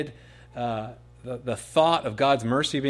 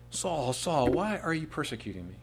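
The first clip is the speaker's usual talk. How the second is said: tender-hearted sorrow; 3 semitones higher than usual. Acted. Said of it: "tender-hearted sorrow".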